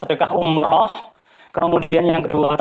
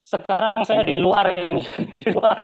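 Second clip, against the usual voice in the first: laughing. Real, not acted. Laughs while explaining.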